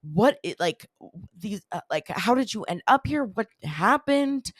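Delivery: a wife frantic at her missing husband; freaking out. Retold or imitated. Wife demanding answers from husband, frantic. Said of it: "she's freaking out".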